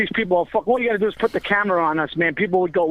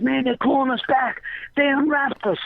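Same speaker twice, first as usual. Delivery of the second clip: imitating Joey; 6 semitones higher, slower than usual.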